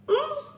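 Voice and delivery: short, high-pitched "Ah!"; high exclamation. Real, not acted. Streamer reacting to the children's videos, sudden high cry.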